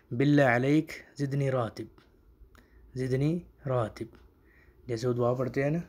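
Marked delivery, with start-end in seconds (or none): 0.1-4.2 زدنی راتب repeated slowly, word by word; Arabic demo. Shown as a demonstration. Teacher modelling a raise request, careful Arabic. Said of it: "تو وہ آپ کہیں گے".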